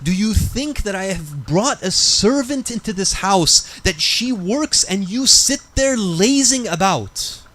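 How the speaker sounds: retold scolding. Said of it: "you begin to yell at me".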